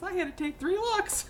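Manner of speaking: lightly voiced astonished lady; amazed quote. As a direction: retell her astonishment, squeaky with laughter. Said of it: "And she goes".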